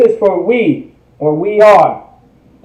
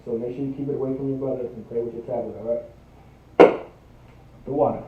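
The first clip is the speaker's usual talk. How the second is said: quiet aside; 8 semitones lower, 16 dB quieter, faster than usual. Real, not acted. Teacher quietly tells child aside.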